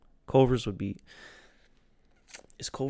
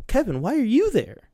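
much higher, louder baffled yelp; hammed-up confusion; 13 semitones higher, 8 dB louder than usual. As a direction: sound totally thrown. Confused friend voiced.

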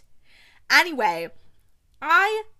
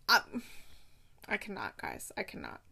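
much softer, spent and overcome; overwhelmed hush; 9 dB quieter than usual. Real, not acted. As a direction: let it fall away, speechless. Overwhelmed after a loved book.

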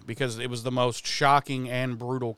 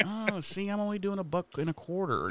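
higher, lighter put-on voice, quick; mock haggling Giles; 7 semitones higher, 7 dB quieter than usual. Giles haggling with Buffy over cameo fees, higher mock voice. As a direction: play Giles bargaining his fee in a high put-on voice. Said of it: "he's like".

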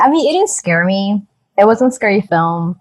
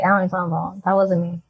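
quiet denial; 6 dB quieter, much faster than usual. Pretend. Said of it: "He's just like".

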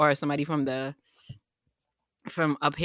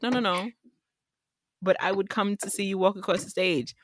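sister voice; 6 semitones higher than usual. Retold or imitated. Sister quoted, higher.

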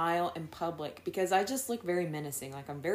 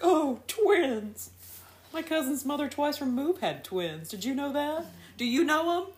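much higher, louder gushing chatter about twins; gushing stranger; 11 semitones higher, 6 dB louder than usual. Retold or imitated. Mom imitating strangers who gush over her twins, high and loud. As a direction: gush like an overeager stranger in a store. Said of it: "They're like".

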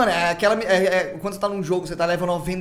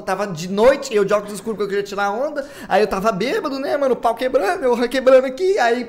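excited; 4 semitones higher, 4 dB louder than usual. Real, not acted. Excited retelling of drunken night.

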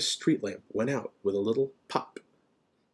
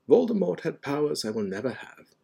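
even, matter-of-fact modesty; calm; 6 semitones higher than usual. A narrator's reading. Dumbledore comparing himself to Voldemort, calm. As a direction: state it calmly. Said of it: "said Dumbledore calmly".

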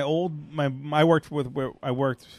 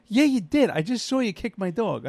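retold confrontation; 5 semitones higher than usual. Dog owner retelling his row with the boss's son, heated insistence. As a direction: push back hard, pitch jumping up.

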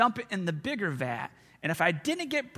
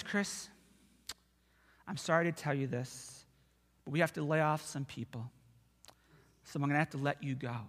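fake sad boss; 6 semitones lower, 7 dB quieter than usual. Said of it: "he's trying to be all sad".

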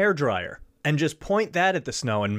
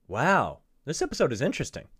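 alternate take. Shown as a demonstration. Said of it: "Plug in whichever one is appropriate".

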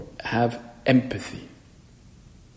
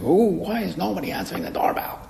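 high, put-on voice of someone annoyed at the door; a fussy complainer, higher; impatient grumble; 9 semitones higher than usual. An annoyed housemate muttering about the unanswered bell, in a raised voice. Voicing an impatient person at home.

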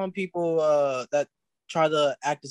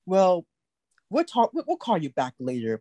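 white interviewer imitation; 3 semitones higher, slower than usual. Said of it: "that white person be like".

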